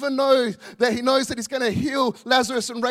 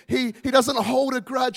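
louder, building preacher's insistence; fervent preaching; 3 dB louder than usual. Acted. Pastor assures grieving mums God weeps with them, fervent preaching. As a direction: pour it on the congregation like a pastor.

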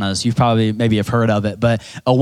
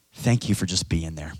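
soft quote; 6 semitones lower, 7 dB quieter than usual. Retold or imitated. Softly quoting cards.

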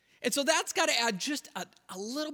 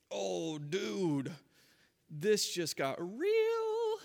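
hushed disbelief; much slower than usual. Retold or imitated. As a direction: murmur it, stunned. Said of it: "everybody in the room just went".

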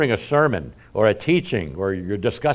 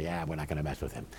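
imitating IRS agent; 7 semitones lower, 14 dB quieter, much faster than usual. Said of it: "the I R S will say".

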